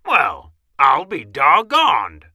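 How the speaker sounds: loud, drawn-out astonishment; big mouse-commander amazement; amazed exclamation. A narrator's reading. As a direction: exclaim it slowly in wonder. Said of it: "squeaked the Big Cheese".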